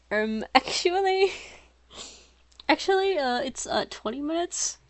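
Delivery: high, put-on 'um, actually' voice; mock nerdy pedant. Reader making fun of the character's correction, mock nerdy pedant. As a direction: push the pitch way up and over-correct, haltingly.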